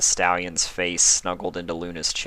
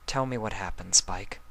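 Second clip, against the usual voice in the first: softer, coaxing and tender; soft and gentle; 3 semitones higher, 4 dB quieter than usual. Acted. Luna gently urging Spike to talk, soft and tender. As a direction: draw him out gently. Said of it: "Luna's tone was soft and gentle".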